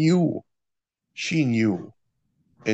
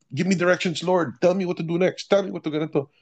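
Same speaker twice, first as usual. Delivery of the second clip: pleading prayer; 7 semitones higher than usual. Retold or imitated. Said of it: "prophetic people trying to do that".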